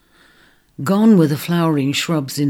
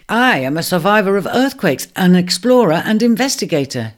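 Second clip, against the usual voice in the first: expounding proudly; 2 semitones higher, 4 dB louder than usual. Acted. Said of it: "he expounded, puffing out his chest".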